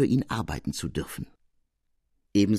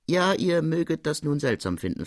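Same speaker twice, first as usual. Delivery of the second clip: raised, high goldsmith's voice; Cardillac in character; 9 semitones higher than usual. A narrator's reading. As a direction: pitch it up and explain yourself. Cardillac erklärt sich der Marquise. (hohe Rollenstimme, sich erklärend)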